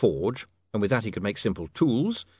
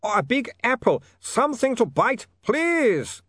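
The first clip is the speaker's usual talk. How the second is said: higher, slow Ubervaltian begging; desperate pleading; 4 dB louder, slower than usual. Acted. Otto begging Saccharissa for cheese, desperate. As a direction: plead as if starving.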